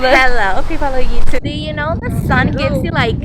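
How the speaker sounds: put-on Valley Girl accent. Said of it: "el Valley Girl accent".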